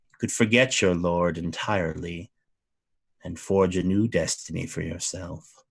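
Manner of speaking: lightly voiced duke, smooth and persuasive; a hint of a seductive fey lord; tempting fey duke. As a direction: lure him in with a calm offer.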